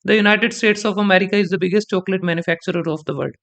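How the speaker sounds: slow, deliberate read with biggest punched; stress on biggest. Shown as a demonstration. Teacher reading a sample sentence to students, stressing biggest. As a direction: lean on biggest as you read it out. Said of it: "main word इस पूरे sentence का है बिगेस्ट".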